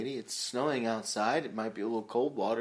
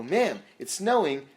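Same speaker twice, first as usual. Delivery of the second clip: deadpan slow; 3 semitones higher, 4 dB louder, slower than usual. Retold or imitated. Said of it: "I go".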